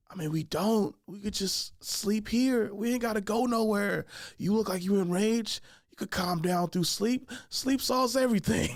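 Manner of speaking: put-on drawn-out, placid drunk reasoning; calm. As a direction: soothe an enraged friend, taking your time. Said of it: "as calm as I was".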